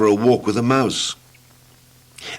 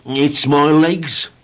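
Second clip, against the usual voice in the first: drawn-out, higher woeful voice; slow mournful complaint; 5 semitones higher, much slower than usual. Acted. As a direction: moan about the legs slowly. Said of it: "explained Mister Tall".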